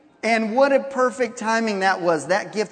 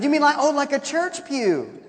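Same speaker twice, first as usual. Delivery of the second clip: laughing tease; 7 semitones higher than usual. Retold or imitated. Teasing laughing question.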